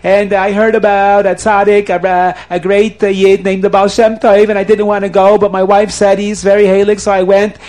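crying, pleading confession. Acted. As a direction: blurt it out loudly, begging for mercy. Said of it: "he's crying and he's screaming".

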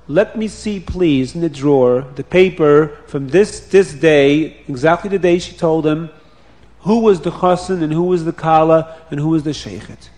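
urgent request. Acted. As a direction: insist on seeing the old paper.

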